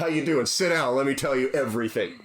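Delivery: hammed-up instant intimacy; over-eager oversharing. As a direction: pounce on a stranger, ready to overshare. Imagines oversharing with strangers.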